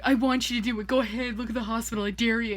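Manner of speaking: a hint of a stand-up daring the crowd; mild Mulaney-style dare to a client; John Mulaney impression. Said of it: "I feel like John Mulaney in that thing".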